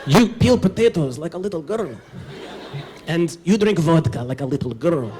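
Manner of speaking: lightly voiced Ukrainian accent, scornful; a hint of a gruff Ukrainian old man sneering; Ukrainian grandpa mocking. Ukrainian grandpa belittling the boy at his chores, mild scornful accent. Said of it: "he would say to me".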